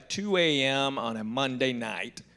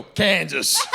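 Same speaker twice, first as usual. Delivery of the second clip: shout; 4 semitones higher, 5 dB louder than usual. Retold or imitated. Shouting the matching town.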